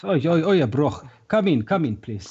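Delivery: a lightly voiced excitable shopkeeper fussing over scruffy guests; shopkeeper Mister Jolly. Mister Jolly greets the ragtag party at his door, fussy and excited.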